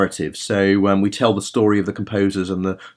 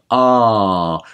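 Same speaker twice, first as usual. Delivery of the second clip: yawning ah. Shown as a demonstration. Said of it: "Imagine you're yawning".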